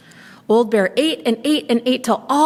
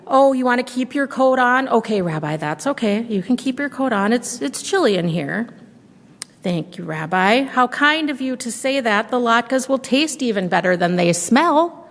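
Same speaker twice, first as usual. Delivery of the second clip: put-on a higher, sweet old granny voice; old woman welcoming a guest at the door, higher and sweet; old grandmother voice; 3 semitones higher than usual. Baba Brena talks to bear.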